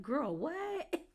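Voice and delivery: whispered mock disbelief; shocked whisper. Cast members reacting to Ryan's remark, whispering in shock. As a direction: breathe it out in a stunned whisper.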